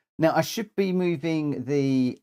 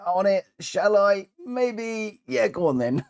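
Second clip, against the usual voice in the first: high-pitched, mock-hesitant inner voice; dithering; 8 semitones higher, 4 dB louder than usual. Streamer mocking his own slow throttle, dithering. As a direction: act out timid dithering before committing. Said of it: "whereas I seem to be".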